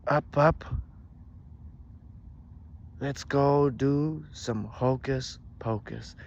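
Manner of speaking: loud, slow incantation; witch casting command. A narrator's reading. Witch orders her stick to fly, loud drawn-out spell. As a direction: command the broom with a showy flourish.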